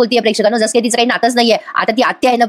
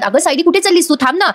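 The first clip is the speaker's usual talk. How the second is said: calling out; 6 semitones higher than usual. Acted. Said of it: "तिला ओरडून म्हणतात".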